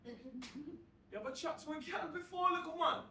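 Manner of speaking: taunting. Acted. Lad taunts the narrator.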